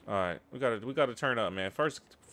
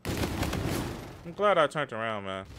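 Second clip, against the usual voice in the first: slow relieved repeat; much slower than usual. Real, not acted. Gamer repeating his lucky turn, slow and relieved. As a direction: stretch out I'm glad, slow and savoring.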